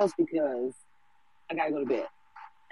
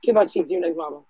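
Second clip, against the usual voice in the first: calling out; 7 dB louder than usual. Real, not acted. Host calling next speaker up.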